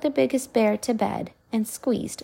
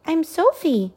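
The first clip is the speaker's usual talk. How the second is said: Sophie; 8 semitones higher than usual. A narrator's reading. Princess voiced, high.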